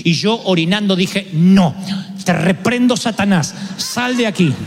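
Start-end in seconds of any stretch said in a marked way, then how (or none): 1.3-4.5 mock rebuke. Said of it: "Fue una pelea".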